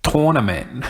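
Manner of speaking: "Tournament" said as TOR-nament; alternative pronunciation. Shown as a demonstration. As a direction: open "Tournament" with an "or" sound. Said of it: "if that's the proper way to say it".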